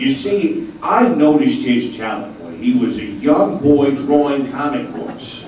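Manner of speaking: put-on excitable old storyteller voice; Stan Lee impression. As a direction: tell it like a showman. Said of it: "we all have our bad Stan impressions".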